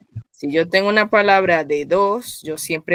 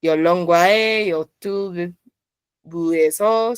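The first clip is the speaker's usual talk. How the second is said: "Yo long guae, yo tu bu eso" in even paired beats; measured pairs through "Yo long guae, yo tu bu eso"; balanced, two by two; slower than usual. Shown as a demonstration. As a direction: evenly split "Yo long guae, yo tu bu eso" into twos. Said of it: "más balanceado porque es de dos en dos".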